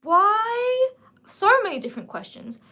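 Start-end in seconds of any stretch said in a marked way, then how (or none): 0.0-0.9 much higher, louder why; loud, stunned why; baffled why. Real, not acted. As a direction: cry out in disbelief. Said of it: "I'm like".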